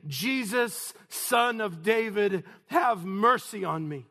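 loud, high cry for mercy. Acted. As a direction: shout the plea to someone passing. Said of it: "This man is crying out".

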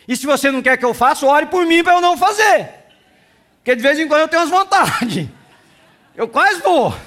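half-joking pulpit confession; loud joking preaching. Acted. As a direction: tease the congregation loudly.

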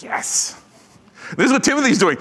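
ordinary talk, nothing marked

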